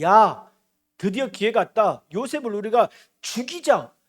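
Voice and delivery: loud opening call, then forceful plotting; rally the brothers to strike; vengeful rallying call. Acted. Brothers spot Joseph coming and seize their chance, vengeful.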